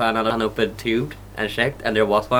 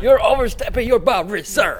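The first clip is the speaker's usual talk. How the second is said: stiff formal bouncer; 12 semitones higher than usual. Pretend. Mock bouncer addressing drunk.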